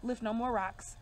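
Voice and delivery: lightly acted worn-out man; exhausted. Reader voicing a man worn out by years of work, exhausted. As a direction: voice a man with a touch of weariness. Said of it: "he's exhausted. Now he's just sitting like".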